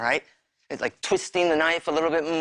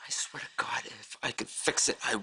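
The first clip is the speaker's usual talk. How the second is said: whispered, broken plea; remorseful whisper; 8 semitones lower, 7 dB quieter than usual. Acted. Husband whispering his regret to his wife, whispered plea. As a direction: barely voice the promise.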